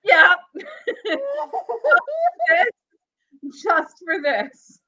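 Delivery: lightly voiced Jonathan Wass, slurring his R's and L's; mock Jonathan Wass reading. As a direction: read the grim statement as Jonathan Wass with a speech lisp. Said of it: "let's bring Jonathan Wass into this".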